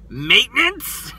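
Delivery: drawn-out, rising mock disbelief; stretched-out "you what?" question; incredulous. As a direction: echo it back as a long, climbing question. Han's incredulous reply acted out.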